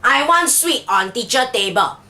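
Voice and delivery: Singlish sentence, clipped words; Singlish accent. Shown as a demonstration. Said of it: "in Singlish, we have to say it as".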